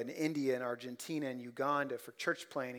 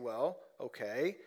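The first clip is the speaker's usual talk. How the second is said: skeptical listener. Pretend. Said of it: "You may be asking".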